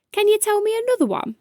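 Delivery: high, fast eager plea; eager child. Acted. Child begging for another story.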